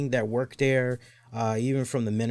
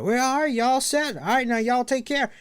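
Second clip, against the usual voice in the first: mock cake guy; 13 semitones higher, 4 dB louder than usual. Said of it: "he just basically said".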